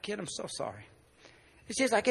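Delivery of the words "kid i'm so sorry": very soft, low apology; hushed retold apology to a child; begging apology. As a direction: plead quietly for forgiveness. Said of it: "I begged and I apologized".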